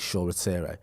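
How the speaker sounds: "Shore Rattire" with the extra syllable; corrected pronunciation. Retold or imitated. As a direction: say "Rattire" as ra-TEER-ay. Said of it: "You're pronouncing it wrong".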